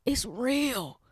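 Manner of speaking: whisper. Real, not acted. Whispered then repeated aloud.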